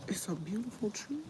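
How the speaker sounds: hushed whisper. Real, not acted. Filming her neighbor's magnolia, a hushed whisper. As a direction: breathe it out softly, almost secret.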